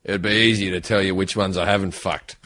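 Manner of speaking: put-on Australian Bond actor's accent. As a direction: drop into a lazy Australian accent. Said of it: "some Australian accent ever".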